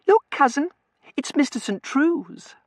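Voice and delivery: put-on very high, loud girlish voice; high-pitched excited announcement; excited girlish cry. A narrator's reading. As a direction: call out in delighted excitement. Excited girl spots her visitor.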